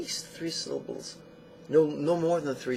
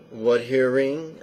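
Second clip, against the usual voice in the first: What hearing asked slowly with a rising end; slow meditation cue; 8 dB louder, slower than usual. Shown as a demonstration. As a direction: draw out What hearing as a gentle question. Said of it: "you don't go that fast".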